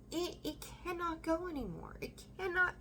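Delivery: telling the viewer the burden cannot go on; insistent emphasis. Real, not acted. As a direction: press hard on cannot.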